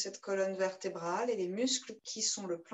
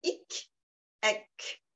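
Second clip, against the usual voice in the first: breathy hic and ec demo. Shown as a demonstration. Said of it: "avec les sons".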